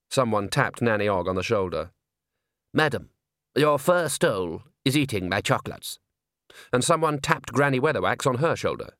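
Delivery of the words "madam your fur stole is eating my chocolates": pompous complaining gent; affronted but formal; stiff gentleman. Acted.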